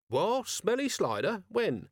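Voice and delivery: jolted by bad news out of nowhere; shocked disbelief. A narrator's reading. Vimes hears that Slider died, in startled disbelief.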